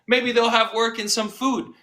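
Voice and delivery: pitched a little up in dry sarcasm; deadpan it with a sarcastic lift. Real, not acted. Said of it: "I'm being very sarcastic here".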